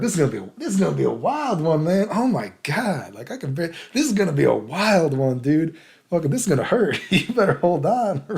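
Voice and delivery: acted jokey hype; joking with a friend. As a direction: rib a buddy with overexcited bravado. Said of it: "joking about it with a friend".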